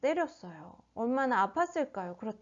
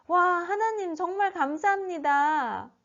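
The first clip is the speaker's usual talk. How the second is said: higher-pitched acted thanks to God; grateful exclamation; 6 semitones higher than usual. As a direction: marvel and give thanks, pitched up. Voicing thanks to God for release. (감탄하며 감사하는 말투)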